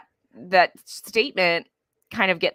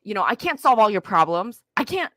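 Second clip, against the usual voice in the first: higher, mildly frazzled parent giving up; overwhelmed parent; 4 semitones higher than usual. Retold or imitated. Parent telling the kid they can't either, higher and frazzled. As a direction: play the parent at the end of their rope, lightly.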